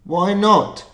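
put-on high, loud Scottish accent; a sharp Scottish challenge. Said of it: "I'm gonna do a Scottish accent".

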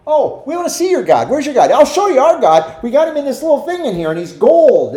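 lightly voiced pagan nations bragging about their gold idol; mocking nations.

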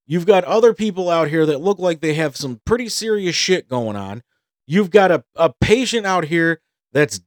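mild mock tirade at the front desk; retold anger. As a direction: lecture the staff with rising outrage. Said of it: "I'm getting mad".

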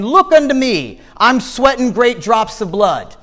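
high, ringing refrain, each call lifted then falling; exhorting preacher. Acted. Lay preacher pleading with sinners in Christ's words, exhorting. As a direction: preach it as an insistent, rhythmic appeal. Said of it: "the good man followed up his text".

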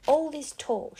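high, loud angry shout. Acted. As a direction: fling it back as a yell. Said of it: "shouted Ralph".

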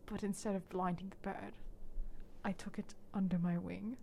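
hushed, brooding storyteller voice, half-whispered; dramatic Jace monologue. Retold or imitated. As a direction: tell a tragic past in a mock-serious hush. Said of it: "Very cinematic".

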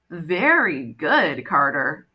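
goddess voice. Acted. The goddess speaking slowly, pleased.

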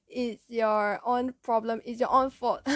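mock blaming parent in a Malaysian accent. Malaysian parent to hurt child, mock blaming. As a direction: lay on the blame, Malaysian-accented. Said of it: "my Malaysian accent come out".

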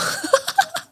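short high burst of laughter; embarrassed at her own bragging, a high giggle. Real, not acted.

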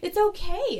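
high, giggly "it's fine"; laughing reassurance. Retold or imitated. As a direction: reassure her through laughter.

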